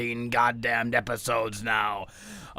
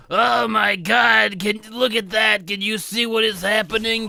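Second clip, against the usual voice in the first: much higher, aghast cry; theatrical shock at the cosmic horror, much higher; mock horror; 8 semitones higher, 4 dB louder than usual. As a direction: gasp at something you can't unsee. Horrified at cosmic reveal.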